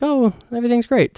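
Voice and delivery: high, bright mock delight; cheery retold reaction. Her own happy read of the ending, in a high mock cheer. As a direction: sell it like all is wonderful. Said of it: "And I was like".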